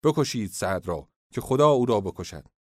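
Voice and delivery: shouted retort. Acted. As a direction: shout back in contempt. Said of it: "در پاسخ او فریاد کشید".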